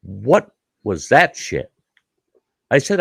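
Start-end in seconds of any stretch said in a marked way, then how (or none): 0.0-1.7 scowling. Retold or imitated. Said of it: "my buddy's just scowling at me".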